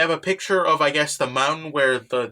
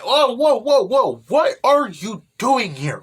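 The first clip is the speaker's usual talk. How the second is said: higher, louder, slowly drawn-out alarm; surprised whoa; 6 semitones higher, 4 dB louder, slower than usual. Retold or imitated. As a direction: back off, startled and slow. Teacher surprised by the girls.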